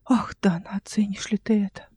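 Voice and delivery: soft whisper to himself; whispered aside. A narrator's reading. Uncle alone by the box, whispering. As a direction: breathe the question under the breath.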